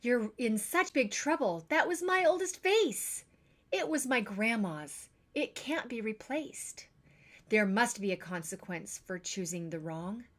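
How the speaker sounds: stern scolding. Acted. Parent scolds over the vase.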